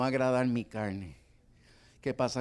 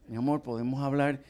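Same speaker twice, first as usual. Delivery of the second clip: composed rehearsal. Shown as a demonstration. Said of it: "Despeja la cara".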